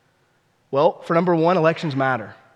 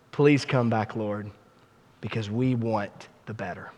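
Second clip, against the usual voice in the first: closing prayer; 2 semitones lower than usual. Real, not acted. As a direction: pray it gently to God. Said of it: "Let's pray together".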